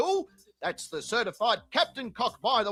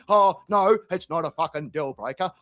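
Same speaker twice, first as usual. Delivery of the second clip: Terry voice; 9 semitones lower than usual. Retold or imitated. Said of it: "he's like".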